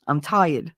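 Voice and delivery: "tired" as a quick "tie-id", no r; natural dropped R. Shown as a demonstration. How it comes out in Jersey, "tired" with no r. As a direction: drop the r in "tired". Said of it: "it's just how it is".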